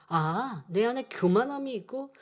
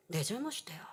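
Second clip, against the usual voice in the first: sudden whisper, much softer; hushed answer; 6 semitones lower, 11 dB quieter than usual. Real, not acted. Preacher whispers the answer to his question. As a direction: drop to a near-whisper for the answer.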